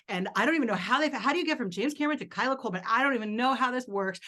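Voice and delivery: words spilling out in a giddy rush; excited rush. Retold or imitated.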